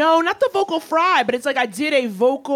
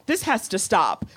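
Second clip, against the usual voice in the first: kindergarten teacher; 4 semitones lower than usual. Retold or imitated. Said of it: "like a kindergarten teacher".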